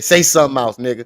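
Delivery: loud mock dare through laughter; laughing mock challenge. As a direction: mimic a challenge while cracking up. Laughing at picture, mimicking its look.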